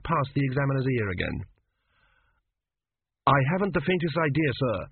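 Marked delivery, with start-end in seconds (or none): 3.2-4.9 defeated student. Acted. Student admits ignorance.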